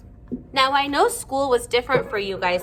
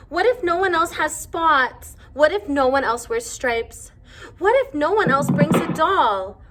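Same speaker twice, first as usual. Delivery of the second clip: higher, fretful voice piling up worries; a small mouse spilling every fear before school; lightly voiced worried child, pitched up; anxious little girl; 3 semitones higher, 4 dB louder than usual. Wimberly lists her worries.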